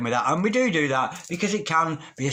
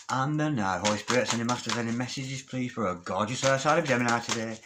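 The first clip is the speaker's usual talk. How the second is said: prayer. Acted. Tarot reader calling on spirits for Gemini, murmured prayer. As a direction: murmur the call for messages like a prayer. Invokes spirits over the cards.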